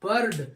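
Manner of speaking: isolated model of "बर्ड"; model word. Shown as a demonstration. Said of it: "उच्चारण अर ही होता है".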